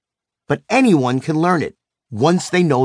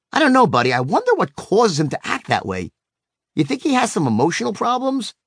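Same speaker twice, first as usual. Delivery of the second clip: mildly sympathetic wondering, high pitched at start and end; sympathetic concern; 6 semitones higher than usual. Retold or imitated. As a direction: puzzle kindly over the other kid. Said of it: "lowering my voice and taking on a more sympathetic".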